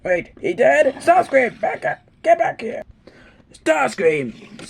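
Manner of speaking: furious roaring shout; dragon voice. Acted. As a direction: bellow it like an enraged tyrant. Angry leader yelling at subordinate.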